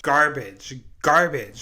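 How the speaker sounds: garbage, hissed with contempt; disgusted repeat of an insult. Real, not acted.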